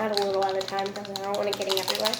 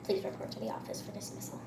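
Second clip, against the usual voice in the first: over the intercom; 12 semitones lower, 7 dB quieter than usual. Pretend. Mock school intercom announcement.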